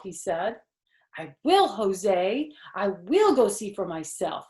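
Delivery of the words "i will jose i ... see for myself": joyful. Acted. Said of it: "I said, real joyful".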